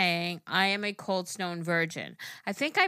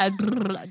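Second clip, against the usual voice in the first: lip trill; 7 dB louder than usual. Shown as a demonstration. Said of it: "That was my lips".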